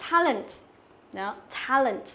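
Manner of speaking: "talent" with a wide, open æ; flat E sound. Shown as a demonstration. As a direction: spread the first vowel of "talent". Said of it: "là âm E bẹt".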